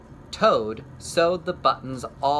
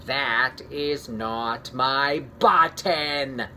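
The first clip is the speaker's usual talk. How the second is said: shouted; much slower than usual. Acted. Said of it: "shouted Toad".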